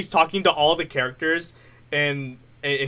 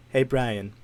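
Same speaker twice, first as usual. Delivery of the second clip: lightly voiced cartoon baby, lowered; a hint of a scheming cartoon baby, pitched down; Stewie Griffin; 5 semitones lower, 4 dB quieter than usual. Friend showing off a cartoon baby impression, lightly voiced. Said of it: "do a little bit of Stewie".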